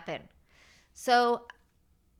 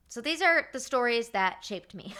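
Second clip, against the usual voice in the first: laughing; 3 semitones higher, 3 dB louder than usual. Real, not acted. Laughs after wild story.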